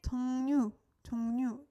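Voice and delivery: 종류 as "jong-nyu", repeated as a model; pronounced with N. Shown as a demonstration. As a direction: sound the ㄹ in 종류 as an N. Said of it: "pronounced like an".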